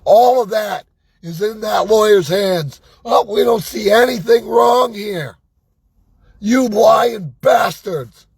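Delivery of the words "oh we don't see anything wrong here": mocking lawyers.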